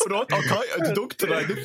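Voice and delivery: high, hammed-up Australian-Borat accent. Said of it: "That's Australian Borat".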